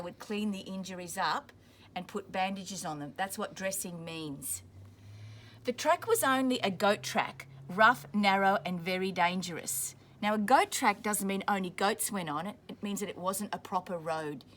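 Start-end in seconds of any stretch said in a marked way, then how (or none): 5.6-9.9 clear, steady storybook reading; reading to children. A narrator's reading. Teacher reading a war story to children, steady storybook voice. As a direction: read it out for the class. Reading picture book aloud to class.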